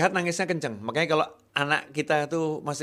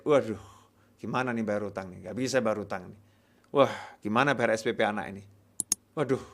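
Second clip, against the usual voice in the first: worried muttering; 3 semitones lower than usual. Retold or imitated. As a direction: fret under your breath about money. Fired man worrying about debts.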